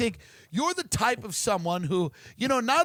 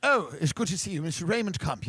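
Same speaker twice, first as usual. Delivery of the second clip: put-on proper English accent; 3 semitones lower than usual. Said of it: "this is a very proper accent".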